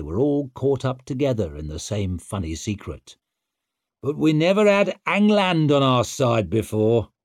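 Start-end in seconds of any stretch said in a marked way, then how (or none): 4.0-7.1 put-on loud, cocky young war leader; brash young warrior. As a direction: swagger through it. Stour, cocky.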